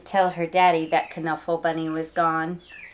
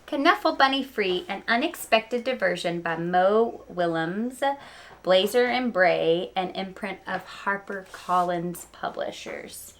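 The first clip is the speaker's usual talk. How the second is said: reading aloud. Acted. Teacher reading a picture book title to her class, read-aloud voice. Reads title page to children.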